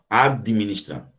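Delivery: administrar said slowly, syllables apart; slow syllable split. Shown as a demonstration. Teacher splitting the word for students, slowly. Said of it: "Como é que separa administrar?".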